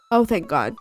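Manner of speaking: normal talking voice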